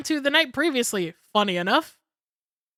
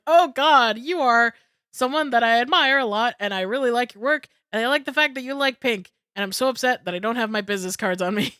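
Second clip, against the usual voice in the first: louder, rushed fangirl gushing to an idol; gushing fan; 5 dB louder than usual. Retold or imitated. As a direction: spill it out like a starstruck fan. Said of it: "so I was like".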